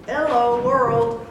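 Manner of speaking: loud, drawn-out hello call; calling from far away. Real, not acted. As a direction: call out to the whole world. Calling out to unseen online audience.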